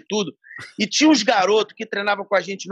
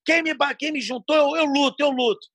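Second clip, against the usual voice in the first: mock defiant; 6 semitones higher than usual. Fininho declaring he fights.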